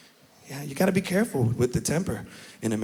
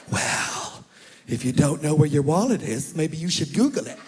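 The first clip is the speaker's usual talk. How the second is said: mother. Retold or imitated. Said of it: "she will insert that word".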